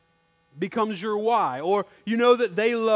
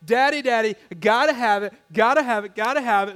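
put-on begging child; 5 dB louder, faster than usual. Child begging for Christmas toy.

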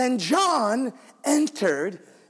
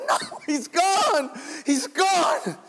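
insistent cry; 6 semitones higher, slower than usual. Retold or imitated. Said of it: "She says".

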